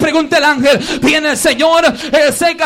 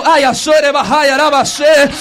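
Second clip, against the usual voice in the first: speaking in tongues. Real, not acted. Pastor to congregation, caught in the Spirit, ecstatic tongues. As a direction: let the tongues pour out.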